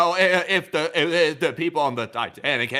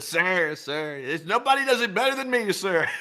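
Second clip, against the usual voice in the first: Trump impression; 5 semitones higher than usual. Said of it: "He said".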